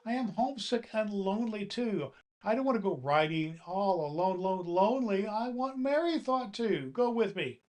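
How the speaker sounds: high sobbing doll voice. A narrator's reading. Doll sobbing to Santa, high and tearful. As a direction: wail it out like a homesick little doll. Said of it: "sobbed Lady Arabella".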